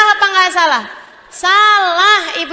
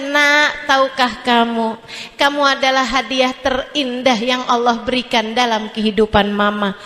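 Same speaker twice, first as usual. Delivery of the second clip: put-on tender mother to child; 5 semitones lower than usual. Shown as a demonstration. Preacher showing mothers how to talk to a child, tenderly. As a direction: say it to your child like a gift. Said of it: "bilangin sama dia".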